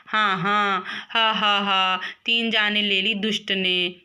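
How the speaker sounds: laughing mother teasing; amused mock scolding. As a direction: chuckle through the words.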